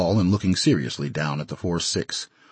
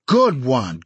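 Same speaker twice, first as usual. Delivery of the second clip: cheering; 5 semitones higher, 4 dB louder than usual. Acted. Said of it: "Al had made a Brooklyn hit".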